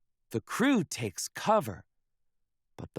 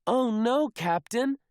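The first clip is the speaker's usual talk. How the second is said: high, louder alarmed cry; alarmed shout; 10 semitones higher, 4 dB louder than usual. Acted. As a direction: warn the captain in alarm. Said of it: "shouts First Mate Callie".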